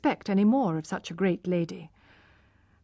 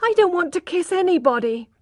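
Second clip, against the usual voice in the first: tearful; 9 semitones higher, 5 dB louder than usual. A narrator's reading. Girl refusing through tears.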